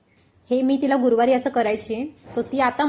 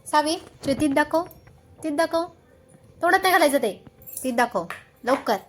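coaxing motherese; 4 semitones higher than usual. Real, not acted. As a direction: coax her brightly to open up. Coaxing toddler to show teeth.

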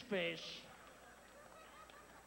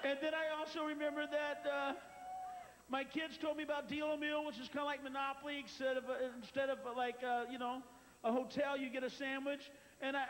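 tearful dieter. Retold or imitated. Guest telling Richard her weight story, a touch teary. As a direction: tell it like a proud, teary guest. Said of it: "She's going".

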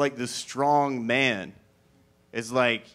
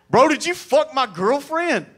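much higher, louder furious demand; angry frat dude; 12 semitones higher, 5 dB louder than usual. Retold or imitated. Frat dude confronting comic, angry shout.

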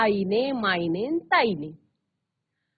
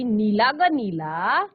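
slow river voice; slower than usual. Acted. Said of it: "नदी म्हणाली".

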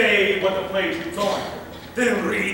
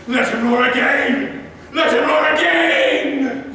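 king's demand; 4 semitones higher, 4 dB louder than usual. Retold or imitated. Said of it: "I shall roar that will make".

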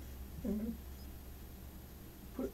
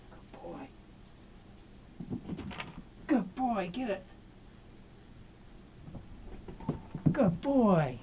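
squeaky praising a dog; 2 semitones higher, 7 dB quieter than usual. Real, not acted. Praising the cat.

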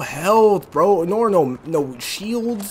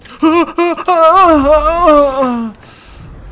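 gasp; 8 semitones higher, 9 dB louder than usual. Real, not acted. Falling off ledge, gasp.

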